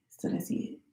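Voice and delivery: breathy whisper, repeated to herself; a quiet whispered echo of the line before. Retold or imitated. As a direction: whisper it under your breath, deflated.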